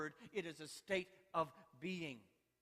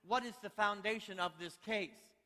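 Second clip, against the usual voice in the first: raised, louder questioning with mild frustration; acted mild exasperation; mildly frustrated judge; 4 semitones higher, 5 dB louder than usual. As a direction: play a judge losing a little patience. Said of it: "the judge was a little frustrated".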